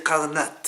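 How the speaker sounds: "Karnat" read with a final "a" instead of "Karnot"; "Karnat" spoken as the word reads without vav; read as written. Shown as a demonstration. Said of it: "c'est marqué deux fois Karnot sans vav".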